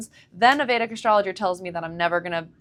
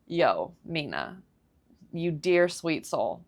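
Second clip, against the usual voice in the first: tender greeting; 2 semitones lower, 4 dB quieter, slower than usual. Retold or imitated. Answering friend Mina who noticed she was off, tender. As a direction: lean gently into a kind friend.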